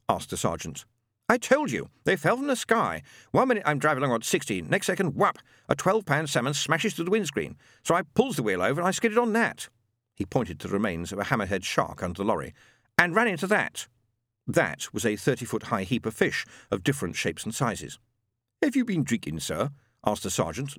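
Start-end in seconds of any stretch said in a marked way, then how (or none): 1.3-13.9 indignant lorry driver. Acted. 18.6-19.7 weary sergeant. Acted. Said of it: "less than hopefully".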